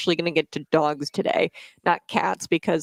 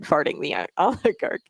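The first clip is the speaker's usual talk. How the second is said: laughing. Retold or imitated. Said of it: "A O C said".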